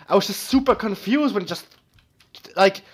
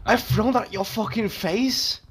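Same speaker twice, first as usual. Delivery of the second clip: slow, higher Scottish lilt; Scottish accent; 5 semitones higher than usual. Real, not acted. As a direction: slip into an annoyed Scottish accent. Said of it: "Oh, he's gone Scottish".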